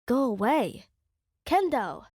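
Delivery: a lightly acted yell, pushing him away; yelled for help. Reader voicing the girl shooing him out, mild yell. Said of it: "you yelled".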